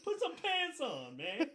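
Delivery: high, loud scolding yell; outraged sergeant order, played for laughs; chewing-out sergeant. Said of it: "Literally, he's like".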